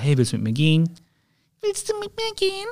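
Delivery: put-on small, very high, soft child's voice asking; a child's hushed high squeak asking a girl out; shy little boy. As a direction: pipe it up timidly like a little kid.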